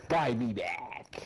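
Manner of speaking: slow breathy whisper mocking the plea. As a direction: whisper it back slowly as a tease. Mocking his teammate's plea.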